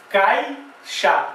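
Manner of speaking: "caixa" in two parts, cai, xa; syllable by syllable. Shown as a demonstration. Teacher showing I leaning on A, syllable by syllable. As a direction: split "caixa" keeping the i with the a. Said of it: "Ele tá se apoiando numa vogal".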